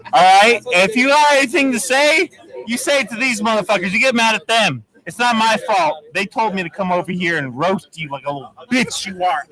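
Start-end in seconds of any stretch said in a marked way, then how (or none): none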